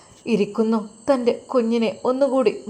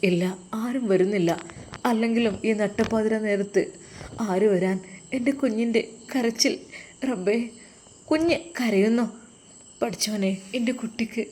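put-on despairing young mother. Wife alone at night, baby crying.

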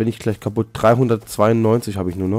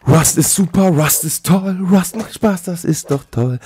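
mock praise; 6 semitones higher, slower than usual. Mock advert for the game.

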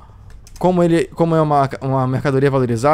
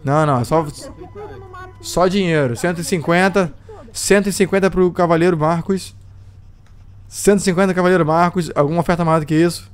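lively auction caller voice; auctioneer. Acted. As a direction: call out bids like an auctioneer. Runs a mock slave auction.

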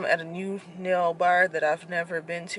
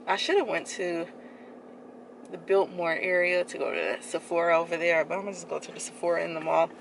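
muffled behind cloth mask; speaking through covered mouth; through a face mask. Real, not acted. Seen 5: Black mask covers mouth and nose throughout labelled speech.

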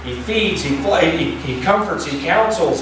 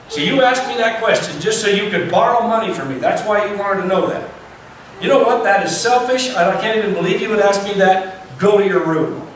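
raised, scolding father's voice, higher; angry dad; 4 semitones higher than usual. Retold or imitated. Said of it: "Now Dad's hot".

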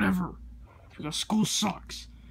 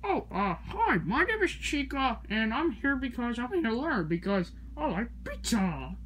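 put-on high kid voice; 5 semitones higher than usual. New student character introduces.

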